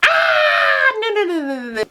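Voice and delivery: mock horrified refusal; emphatic refusal. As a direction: shut it down, no no no. Refusing his baby mama talk.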